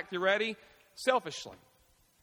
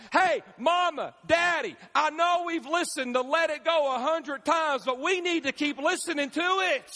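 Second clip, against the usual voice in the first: put-on a child begging mom and dad to keep the song on; whiny kid; 6 semitones higher than usual. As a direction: plead like a kid from the back seat. Kid begging parents in car.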